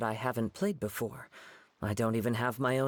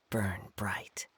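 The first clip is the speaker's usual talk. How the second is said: whispered close; 4 semitones lower than usual. Acted. Poem line ends hushed.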